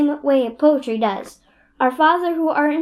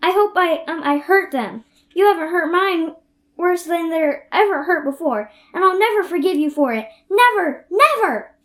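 angry crying. Acted. Anne's tantrum at Missus Lynde.

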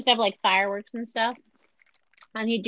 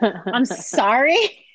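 mock apology; 6 dB louder, much slower than usual.

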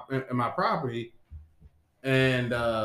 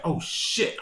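whispered oh shit; 2 semitones higher than usual. Retold or imitated. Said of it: "I was like".

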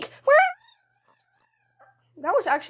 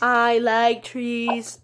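slow robot voice; slow, deliberate robot delivery; Sprout robot voice; 3 semitones lower, much slower than usual. Retold or imitated. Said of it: "You can't get the robot voice".

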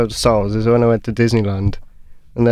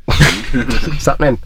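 Welsh Darth Vader voice; much slower than usual. Retold or imitated. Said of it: "He walks up to Luke like".

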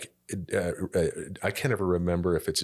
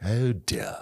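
David Attenborough; 3 semitones higher than usual. Acted. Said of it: "once you hear him go".

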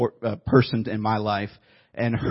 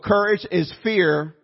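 quoted with weight; 4 semitones higher, slower than usual. Shown as a demonstration. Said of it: "I love this quote".

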